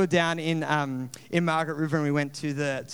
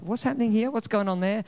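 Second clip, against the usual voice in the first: mock talking at the screen; 5 semitones higher, 4 dB louder than usual. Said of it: "or they yell instructions".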